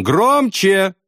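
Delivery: high, cheerful yell; friendly shout. A narrator's reading. Friend shouts to wounded man, cheerful. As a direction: call out to your buddy. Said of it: "крикнул он".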